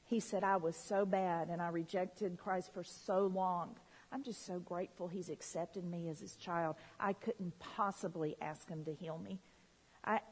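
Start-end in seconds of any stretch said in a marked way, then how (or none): 0.4-9.4 low, soft, humble retelling; subdued and sincere; honest confession. Retold or imitated. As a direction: quote a grateful man's quiet confession. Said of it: "this brutal honesty. He said".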